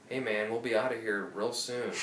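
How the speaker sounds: casual worker brushing it off; standard white guy voice. Retold or imitated. Construction worker calmly replying, mild standard white guy voice. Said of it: "this standard white guy voice say".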